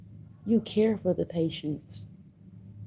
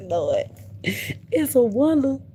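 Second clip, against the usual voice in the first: disbelieving cry; 8 semitones higher, 5 dB louder, slower than usual. Real, not acted. Exclaiming in disbelief.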